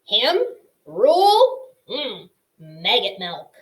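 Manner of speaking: mocking scoff, drawn out; scoffing porcupine. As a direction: scoff at the idea.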